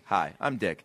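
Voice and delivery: a hint of low radio read; low mock ad intro; Dick. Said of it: "you hear Dick going".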